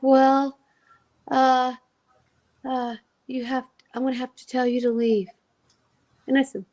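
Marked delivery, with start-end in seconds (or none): 0.0-5.3 long awkward fillers, then get it out; reluctant, halting. Retold or imitated. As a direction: imitate someone stalling before bad news. Jerry reluctantly asks her to leave.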